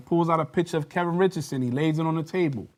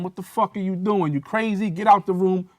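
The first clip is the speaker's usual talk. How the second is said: high, raised mock yell at a fellow cop; retold yelling; 6 semitones higher, 3 dB louder than usual. Detective yelling at the officer to leave, raised mock yell. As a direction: bark it like the detective stepping in. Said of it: "starts yelling at him, cursing at him".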